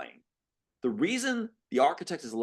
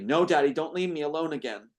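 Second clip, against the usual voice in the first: desperate; 4 semitones higher than usual. Acted. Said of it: "Brittany desperately".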